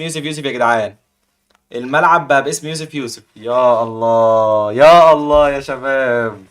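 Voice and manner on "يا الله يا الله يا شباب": stretched-out wow. Real, not acted. Streamer marvels at the upset.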